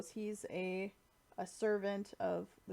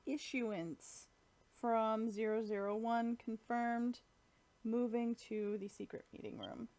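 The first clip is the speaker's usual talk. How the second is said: mechanical voice. Retold or imitated. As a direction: announce it like a machine. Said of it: "like, a mechanical voice".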